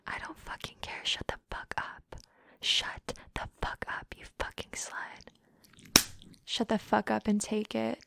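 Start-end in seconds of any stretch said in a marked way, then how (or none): 0.1-6.0 slowing, emphatic voiceless scolding; forceful whisper. Acted. Dominant silencing partner, forceful whisper. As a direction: whisper harshly, drawing out the ending.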